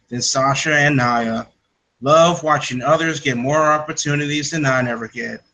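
put-on Australian accent read, only lightly done. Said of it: "do my best Australian accent".

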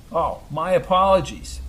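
mock apology, dripping sarcasm; sarcastic. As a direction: apologize without meaning a word. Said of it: "said Brady very sarcastically".

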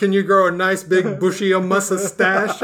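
playful mock Italian accent; stereotypical Italian accent. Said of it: "all these stereotypical accents".

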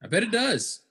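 "I bet it does" pitched high, falling at the end; high-pitched retort. Real, not acted. Man answering "it builds character", high-pitched retort. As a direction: swoop up high on the reply, then drop. Same reply, first take aloud.

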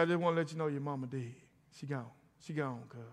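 low, quiet and hurried, dropping to near silence; grave hushed report; hushed bad news. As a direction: break the news softly. Cousin breaks mother's death news.

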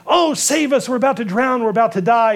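high, pleading cry for rescue; panicked cry. Retold or imitated. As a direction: voice the apostles begging to be saved. Panicking apostles in the storm.

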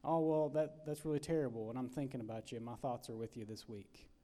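soft, trailing-off stock condolence; mildly dismissive sympathy. Shown as a demonstration. Preacher mimicking a hollow condolence, trailing off. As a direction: offer the empty comfort people give out of habit. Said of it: "instead of".

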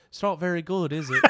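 amused, badly faked Cockney accent; hammed-up Cockney verdict. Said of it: "that's how they're gonna talk".

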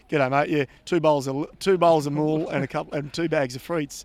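mock Aussie ordering at a Lille restaurant; Ocker Aussie accent. Teasing his co-host, hammed Ocker Aussie accent. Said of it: "obviously I'm talking in a real Ocker Aussie accent".

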